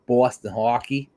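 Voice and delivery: put-on Boston accent with rounded vowels; mock Boston accent. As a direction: make fun of a Boston accent. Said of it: "their Bostonian accent".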